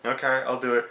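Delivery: meek Sandow. Retold or imitated. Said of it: "Sandow was like".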